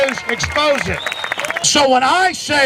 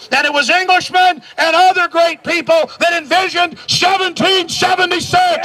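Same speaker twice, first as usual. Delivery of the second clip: rallying shout; 5 semitones higher than usual. Real, not acted. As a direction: build into a rousing shout. Rally speech climax.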